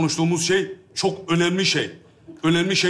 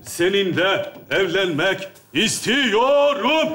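mock crying; 2 semitones higher, much slower than usual. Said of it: "Tamam, ağlama".

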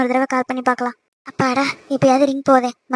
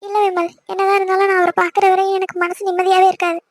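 mildly tearful protest; anxious, holding back tears; tearful worry; 2 semitones higher than usual. Acted. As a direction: answer with a touch of crying. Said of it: "ஏன் இருந்து அழுதுட்டே இருக்க".

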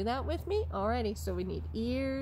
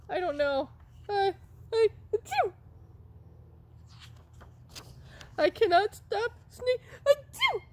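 very high squeaky voice, near crying; high whimpering puppet; 14 semitones higher, 5 dB louder than usual. Pretend. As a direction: whine it out between sneezes.

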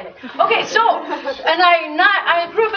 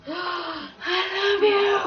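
gushing; 6 semitones higher, 4 dB quieter, much slower than usual. Real, not acted. Gushing at students in room.

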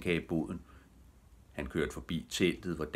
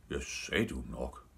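low, softer grumble; lowered, grumpy muttering; grumbling; 4 semitones lower, 5 dB quieter than usual. A narrator's reading. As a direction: grumble I-told-you-so in a low voice. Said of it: "brummede Tube".

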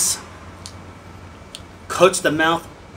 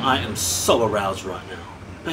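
slower, lower mock-seductive repeat; mock sultry; 5 semitones lower, slower than usual. Reviewer hamming up his delight in the whisky, mock sultry. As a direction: drag it out like a joke come-on. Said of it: "repeated line said lower".

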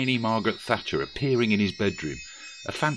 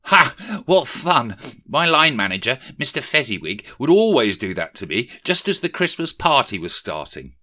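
high, loud delighted recall; gleeful; 5 semitones higher, 6 dB louder than usual. A narrator's reading. Rishi gleefully recalls being tied up at work. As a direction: relish the memory with glee.

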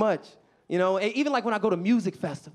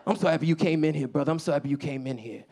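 put-on older man voice; 2 semitones lower than usual. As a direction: praise him like an uncle.

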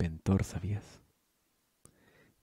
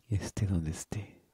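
1 soft whisper; 3 dB quieter than usual. Acted. Letter read softly.

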